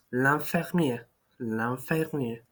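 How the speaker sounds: l'infirmière said slowly and clearly; French l'infirmière. Shown as a demonstration. Teacher models the word for the nurse. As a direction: carefully sound out l'infirmière. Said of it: "the nurse".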